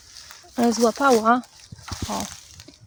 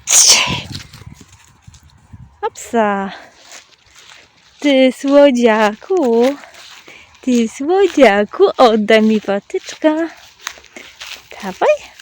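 pet talk; 10 dB louder, slower than usual. Real, not acted. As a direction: coo and praise the dog, calling out to it. Loud doting talk to dog. (głośne, czułe mówienie do psa)

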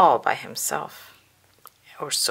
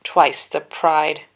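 loud, slow villain taunt; Dooku taunting; 7 dB louder, slower than usual. A narrator's reading. Count Dooku taunts Anakin, slow and loud. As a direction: savor the threat slowly. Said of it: "Count Dooku said".

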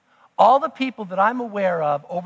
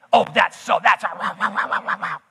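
mock outrage. Mocking critics' indignant complaint.

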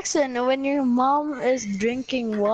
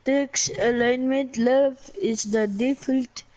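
Russian accent. Shown as a demonstration. Reading from a book to show off a Russian accent. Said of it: "so I can do the Russian accent".

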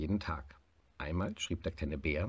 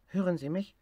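higher, stress on Hören; calling into the hose: Hören sie mich; tiger on the phone; 11 semitones higher, 4 dB louder than usual. Acted. Tiger tests the garden hose phone, stressing Hören.

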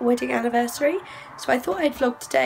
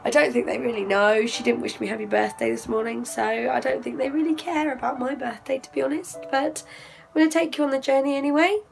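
hoarse, lost voice; speaking with a lost voice. Real, not acted. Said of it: "as you can hear, I have lost my voice".

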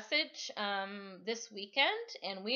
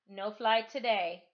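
gentle father; 2 semitones higher, 7 dB louder than usual. Acted. Dad gently tells Penny.

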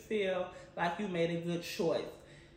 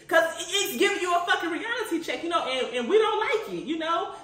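laughing; 8 semitones higher, 5 dB louder than usual. Real, not acted. Laughing about the reality check.

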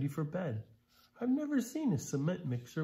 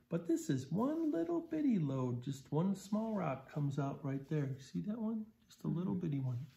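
tiny-thing voice; 5 semitones higher than usual. Real, not acted. Showing children tiny rock.

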